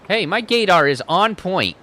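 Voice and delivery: loud, high cocky claim; confident declaration; proud boast. Acted. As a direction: say it like a smug brag. Confident character line.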